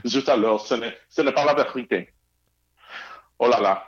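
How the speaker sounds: lightly put-on French accent; a hint of hammed-up French; playful French chef. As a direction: toss out French phrases like a cartoon chef. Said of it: "Were you being the French chef".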